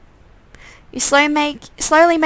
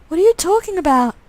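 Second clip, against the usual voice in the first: irritated undead twin; 7 semitones higher than usual. Acted. Undead twin telling his brother he's pissed off, petulant. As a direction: explain the bond, then sulk.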